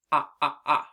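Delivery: short O "ah" repeated; short o sound. Shown as a demonstration. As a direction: isolate the vowel "ah". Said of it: "the beginning of the word off".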